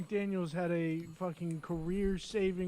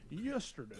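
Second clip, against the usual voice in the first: "Yesterday" softer, Boston style; hushed Boston "Yesterday"; 11 dB quieter than usual. Retold or imitated. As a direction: say "Yesterday" like Bruce, quietly Boston. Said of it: "Bruce says".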